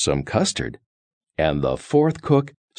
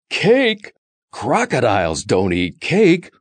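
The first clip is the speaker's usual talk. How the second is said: louder, higher Cake, storybook beast scoffing; fierce crocodile growl, raised voice; 5 semitones higher, 4 dB louder than usual. Acted. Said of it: "In a loud and fierce voice".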